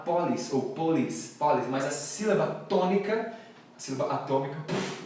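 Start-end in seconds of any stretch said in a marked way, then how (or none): 0.0-0.5 police with stress on the first syllable, PO-lis; wrong police stress. Shown as a demonstration. Teacher showing a common Brazilian error, wrong police stress. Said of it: "a gente tende a falar". 0.7-1.7 police said as variants of PO-lis; wrong police stress. Shown as a demonstration. Teacher showing common Brazilian errors, wrong police stress. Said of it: "a gente tende a falar".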